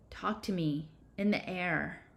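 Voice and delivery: soft, hushed plea; whispered. A narrator's reading. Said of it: "She whispered".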